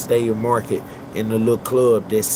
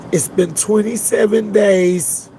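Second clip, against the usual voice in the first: slow, higher voice as the mother; imitating the grieving mother; 7 semitones higher than usual. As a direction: echo the mother's words, slow and high. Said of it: "started her speech off by saying".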